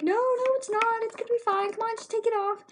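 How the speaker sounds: high-pitched, insistent mock reassurance; imitated teacher brushing off worry. Teacher to the alarmed girl with slime on her, high-pitched insistence. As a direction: keep it high and insist it's fine.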